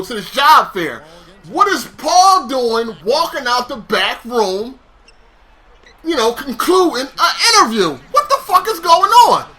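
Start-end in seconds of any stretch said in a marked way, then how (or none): 1.5-9.5 high and laughing through the words; laughing disbelief. Retold or imitated. Telling a friend about the manager, laughing in disbelief. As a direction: laugh at how absurd it is.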